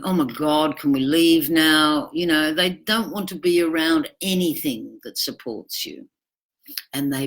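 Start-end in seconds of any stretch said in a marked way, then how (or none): 0.0-2.1 sulky whine. Retold or imitated. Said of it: "sitting in the corner sulking".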